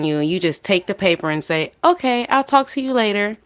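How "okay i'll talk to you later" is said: high, sing-song brush-off; mock breezy. Imitating her reply to a threatening gangster, mock breezy. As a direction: chirp it as a put-on casual goodbye.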